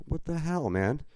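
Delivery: what the hell. Retold or imitated. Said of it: "I'm like".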